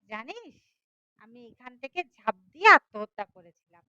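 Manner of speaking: lively, dramatic storytelling voice; story narration. A narrator's reading. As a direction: tell the tale with rising and falling suspense. (নাটকীয় ভঙ্গিতে গল্প বলা)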